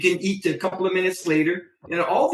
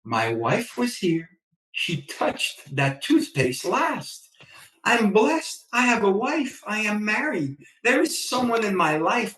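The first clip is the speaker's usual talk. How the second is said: grateful; 3 semitones higher than usual. Retold or imitated. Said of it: "I go".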